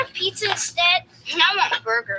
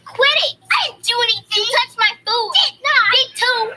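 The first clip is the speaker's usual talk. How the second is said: bickering; 5 semitones higher, 4 dB louder, faster than usual. Acted. Kids bickering at the table.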